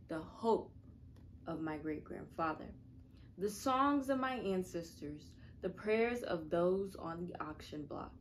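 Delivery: earnest spoken word poem; nervous open mic poet. Acted. Reads a mirror poem.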